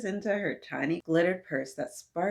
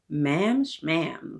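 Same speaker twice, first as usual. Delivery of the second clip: proclaiming; 6 dB louder than usual. Acted. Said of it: "the lady proclaims".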